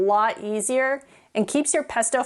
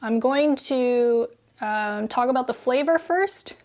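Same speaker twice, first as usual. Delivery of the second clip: talking around a spoonful of pesto; spoon in mouth. Real, not acted. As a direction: mouth full, still chewing. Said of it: "put the spoon in my mouth".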